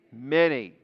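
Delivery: Many said low and falling, as the answer; stress on Many. Real, not acted. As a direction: drop the voice on Many. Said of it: "How many will they lead astray?".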